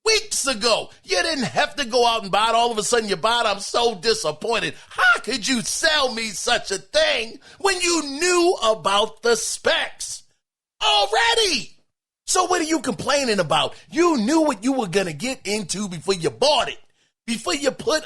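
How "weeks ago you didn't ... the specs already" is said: lightly voiced whiny complaint, rising to a shout at the end; mocking Cody's rant. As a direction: play Cody ranting as a hammed-up complainer. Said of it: "Cody said".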